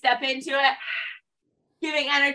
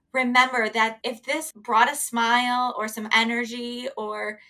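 podcast sign-off. Real, not acted. Host thanking listeners for moving along, measured sign-off. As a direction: sign off to listeners, evenly paced.

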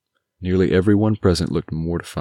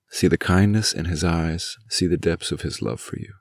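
gently, slowing toward the end; a father's tender plea to look at his son; softened. Acted. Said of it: "His eyes softened as he spoke".

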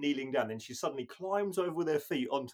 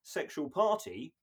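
mock old dad; 6 semitones higher, 7 dB louder than usual. Mock Martin sending everyone off.

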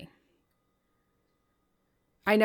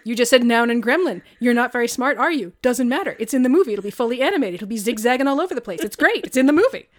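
louder, brighter mock enthusiasm building up; hammed-up Jordan Peele; 3 semitones higher, 6 dB louder than usual. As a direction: oversell every silly idea with fake cheer. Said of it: "he gets to a guy where he's just like".

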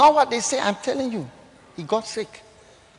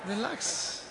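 placating; 7 semitones higher, 12 dB quieter, much slower than usual. Retold or imitated. Pastor soothing the shouting man.

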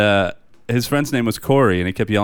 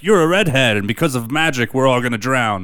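lightly imitating simple fishermen, pitched up; mock a superstitious hick's higher-pitched accusation; half-acted quote of clueless fishermen, starting high and louder; mock ignorant fishermen; 4 semitones higher, 3 dB louder than usual. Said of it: "fisherman hicks that, like, didn't know anything".

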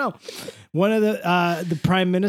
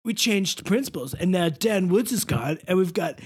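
Mister Oleander. Pretend. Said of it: "talk like Matty O".

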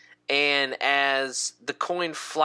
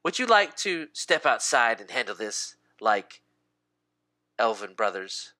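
measured challenge, sinking lower; challenging elf; 5 semitones lower than usual. Acted. Elf inviting a rival to fight outside, measured challenge. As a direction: issue the invitation coolly, dropping at the end. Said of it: "and goes".

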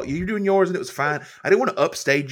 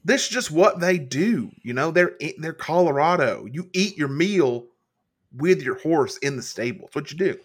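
cowboy voice. Acted. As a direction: lay on a gentle cowboy twang. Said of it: "break out that cowboy voice".

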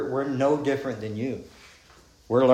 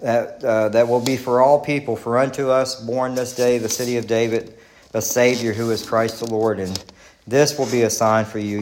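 scripture reading; 4 dB louder than usual. Acted. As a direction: proclaim it to the congregation like a herald. Reading Christmas angel scripture.

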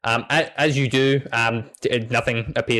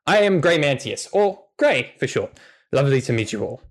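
happy dog; 3 semitones higher than usual. Acted. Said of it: "He smiles happily and says".

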